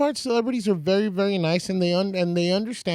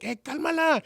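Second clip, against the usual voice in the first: bodyguard warning; 11 semitones higher than usual. Retold or imitated. Bodyguard stopping the dad.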